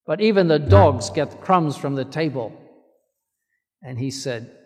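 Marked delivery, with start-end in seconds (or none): 0.0-2.5 loud, bold retort; holy boldness. Retold or imitated. Woman boldly answers Jesus, loud and firm. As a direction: answer back firmly with faith. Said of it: "with a holy boldness".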